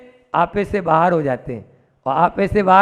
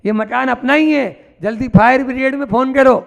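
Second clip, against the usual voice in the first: higher-pitched, hurried scolding of a retold son; urgent scolding; 4 semitones higher than usual. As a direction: press them urgently, pitch held high. Younger son urgently scolds father, brother.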